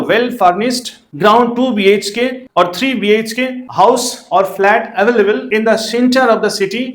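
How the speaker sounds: very slow, word by word, ad text read out for copying; slow dictation. Shown as a demonstration. Teacher dictating a to-let ad to students, very slow. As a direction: dictate the ad slowly so every word can be written.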